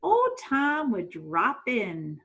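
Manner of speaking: lively read-aloud storytelling voice; story narration. A narrator's reading. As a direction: read it like a storybook to young kids.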